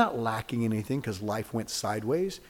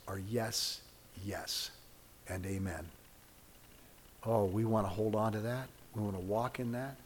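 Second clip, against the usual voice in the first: prayer. Acted. Pastor leading closing prayer for congregation, earnest. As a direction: pray it out reverently.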